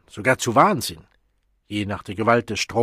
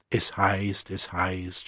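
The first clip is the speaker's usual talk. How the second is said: mocking; slower than usual. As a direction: throw the phrase back with scorn. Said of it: "spottete Lenina".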